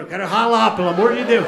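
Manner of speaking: loud, eager plea; relieved fan begging to leave; excited shout. Retold or imitated. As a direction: cry it out in relief.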